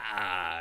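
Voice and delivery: long, loud "ah" as if possessed; imitated possessed groan. Retelling the boy's possession leaving him, imitated drawn-out groan. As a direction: act out a drawn-out exorcism cry. Possessed boy in retold exorcism.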